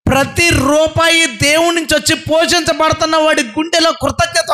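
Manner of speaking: high, ringing sermon delivery; impassioned preaching. Real, not acted. Preacher proclaims water drawn with joy from wells, impassioned preaching.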